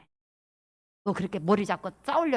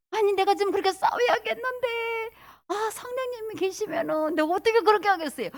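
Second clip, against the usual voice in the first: reluctant protest; 11 semitones higher than usual. Acted. Someone itching to fight holds back before the Holy Spirit, reluctant protest. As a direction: plead high, as if held back.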